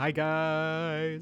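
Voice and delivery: loud hollered yell, "guys" drawn out. Greeting friends as they walk down the stairs, yelling really loudly. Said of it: "I'm gonna yell really loudly".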